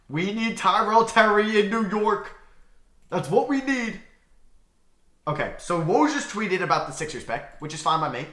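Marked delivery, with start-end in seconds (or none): 0.1-4.0 higher, louder and slower, pleading; emphatic plea. Shown as a demonstration.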